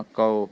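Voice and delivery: ਕਉ said as ka-u, the u sounded; ਕਉ pronunciation. Shown as a demonstration. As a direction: glide ka into u in ਕਉ. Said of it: "ਇਹਦਾ ਇਸ ਤਰ੍ਹਾਂ ਉਚਾਰਨ ਕਰਨਾ".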